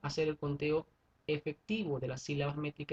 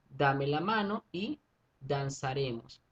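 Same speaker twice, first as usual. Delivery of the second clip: measured recital of a line; slow poem reading; slower than usual. Shown as a demonstration. Teacher reads a verse to students, slow. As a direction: read the verse slowly, syllable by syllable. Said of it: "Vamos a hacer conteo".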